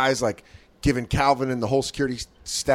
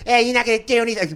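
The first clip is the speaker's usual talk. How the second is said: mock taunt; 8 semitones higher, faster than usual. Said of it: "Bobby goes".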